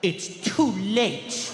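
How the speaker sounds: slow, drawn-out mock reproach; kid with attitude. Forgotten kid to mom, slow cheeky attitude. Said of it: "give my mom unlimited attitude".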